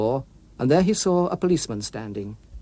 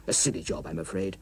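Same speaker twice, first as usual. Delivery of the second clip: sheepish; 9 semitones lower, 9 dB quieter than usual. Acted. Walter apologising to the policeman.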